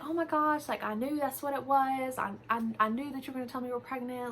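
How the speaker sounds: high, fast, gushing mother-in-law; mock excited squeal of a future grandma; imitating excited mom. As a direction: rattle it off, thrilled. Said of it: "she was really excited".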